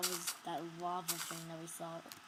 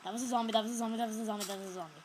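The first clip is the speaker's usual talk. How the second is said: excited; 6 dB louder, much faster than usual. Real, not acted. Panicked repeat.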